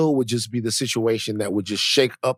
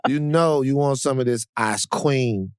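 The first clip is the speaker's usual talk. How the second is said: Fat Van voice. Retold or imitated. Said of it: "that's how Fat Van sounds".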